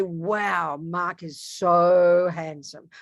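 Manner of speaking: slow, dreamy mock admiration; swooning over Mark. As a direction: drag it out like an infatuated fan. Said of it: "I look at Mark and I say".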